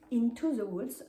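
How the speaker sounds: mock-proud attempt at an English accent; showy English accent. Shown as a demonstration. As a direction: put on your best English for the title. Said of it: "vous remarquerez mon magnifique accent". (accent anglais fièrement exagéré)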